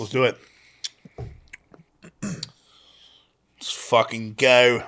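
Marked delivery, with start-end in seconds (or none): 2.2-4.8 slow, drawn-out try at an Australian accent; Australian accent attempt that lands British; British-leaning Australian accent. Shown as a demonstration. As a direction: draw GO out long in a British-sounding Aussie accent. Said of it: "that was more British".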